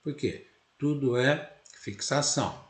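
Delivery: ordinary talk, nothing marked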